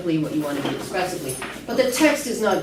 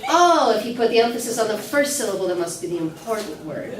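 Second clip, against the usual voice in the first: laughing mock actor; 3 semitones higher, 3 dB louder than usual. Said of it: "so you say".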